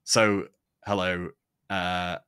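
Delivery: casual, chatty Manchester accent; normal Manchester voice. Shown as a demonstration. Podcaster chatting about later plans, relaxed Manchester accent. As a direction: drop the TV polish, talk like a Mancunian. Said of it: "this is my normal voice".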